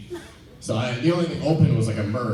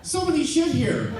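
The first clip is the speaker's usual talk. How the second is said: high, giggling accusation; laughing mock indignation. Homeless man blaming someone else, laughing. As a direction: barely hold it together.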